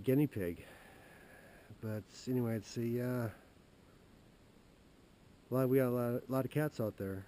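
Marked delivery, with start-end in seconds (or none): 5.5-7.2 stalling nervously. Retold or imitated. Stalling bad news to sister.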